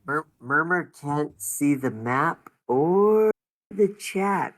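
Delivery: whispery Murmur voice. Acted. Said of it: "are you trying to sound like you're on helium".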